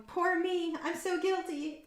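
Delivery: high, mocking whine; whiny mock hero. Mocking the show's hero to her viewers, high whiny. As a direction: whine it to mock the hero's guilt. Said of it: "his little whiny".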